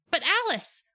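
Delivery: high, excited announcement; dramatic reveal. A narrator's reading. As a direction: present the surprise guest with a flourish.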